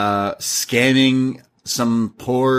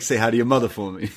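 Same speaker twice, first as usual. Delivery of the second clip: quicker, offhand take with a lean on mother; SNL Wahlberg impression; faster than usual. Recalling the SNL sketch for his cohost, a quick mild Wahlberg voice. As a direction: rattle it off like the comedy sketch. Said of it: "Mark Wahlberg talks to animals".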